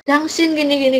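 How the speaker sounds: a mild mock outburst after a crash; lightly voiced angry driver. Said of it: "marah yang ditabrak".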